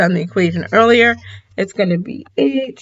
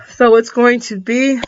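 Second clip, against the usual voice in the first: words stretched by a yawn; 3 semitones higher, 3 dB louder than usual. Real, not acted. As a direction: talk through a yawn. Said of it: "sorry, I have the yawns".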